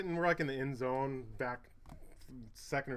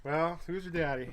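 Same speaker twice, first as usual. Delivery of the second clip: slow, higher, teasing brag; mock cocky taunt, slow and higher; mock swagger; 5 semitones higher, 3 dB louder than usual. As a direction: lay it on like a cocky joke. Banter after call you Dad.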